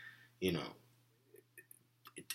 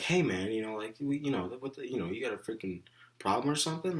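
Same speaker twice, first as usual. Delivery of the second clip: raised voice; 5 semitones higher than usual. Retold or imitated. To a smart-mouthed coworker, a raised but controlled voice. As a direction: push back hard, not quite shouting. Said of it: "I raised my voice".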